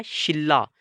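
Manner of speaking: शिल्ला said with a doubled l, no n; शिल्ला, the n sound turned into l; Korean pronunciation demo. Shown as a demonstration. Teacher shows students how शिनरा sounds: शिल्ला with a doubled l. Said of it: "जब हमने इसको पढ़ना है, pronounce करना है".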